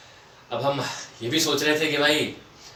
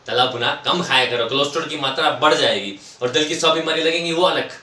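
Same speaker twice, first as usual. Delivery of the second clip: scolding lecture; 3 semitones higher, 4 dB louder than usual. Acted. Wife lecturing husband about fried food at fifty, scolding. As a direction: imitate a nagging wife's sermon. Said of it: "उनका प्रवचन शुरू हो जाता".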